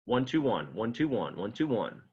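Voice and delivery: "one, two, one" chanted with a beat on "two"; counting rhythm. Shown as a demonstration.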